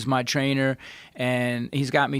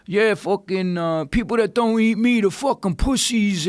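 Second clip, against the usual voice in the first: high mock bro quote; mocking meathead voice; 5 semitones higher than usual. Quoting the anti-vegan gym guy, high mocking voice. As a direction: sneer it out like a dumb gym bro. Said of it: "and then he's like".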